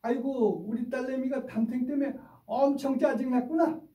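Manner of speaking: high, sing-song sympathetic coo; rising tender 짜증났구나 like a mother comforting; mirroring empathy. Shown as a demonstration. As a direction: mirror the child's upset face and soothe her. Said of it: "애 얼굴 그대로 따라하면서".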